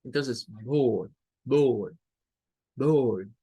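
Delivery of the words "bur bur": "bur" slow, with an uh sound and no clear o; slow schwa demo. Shown as a demonstration. Teacher slowly repeating the schwa syllable for the class. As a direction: stretch out "bur" so the schwa is heard. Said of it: "Es un sonido de schwa".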